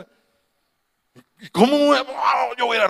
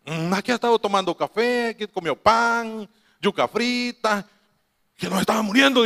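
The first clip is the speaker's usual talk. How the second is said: lightly acted casual report, raised pitch; reported reassurance; 4 semitones higher than usual. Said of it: "Y me dicen".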